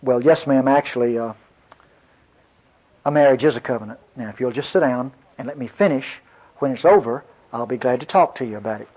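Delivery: low, softened, polite composure; composed. Retold or imitated. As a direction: keep your decorum, quietly courteous. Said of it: "got a grip on myself pretty quickly".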